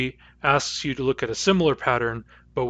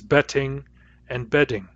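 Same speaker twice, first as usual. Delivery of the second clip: betting and bedding with crisp t and clear d, British style; British English. Shown as a demonstration. Teacher imitating a British English speaker. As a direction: separate the t and d in a British accent. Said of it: "standard British English would pronounce".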